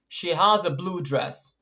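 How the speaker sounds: slow sentence with blue stressed. Shown as a demonstration. Teacher giving an example of emphatic stress, stress on blue. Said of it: "The answer is blue".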